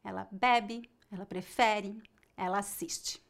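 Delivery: "bebe", "prefere", "assiste" with the final E reduced and faint; unstressed, swallowed final E on "assiste"; weak final E. Shown as a demonstration. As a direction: let the last E of "bebe" fade almost to nothing. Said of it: "a pronúncia da letra E no final é fraca".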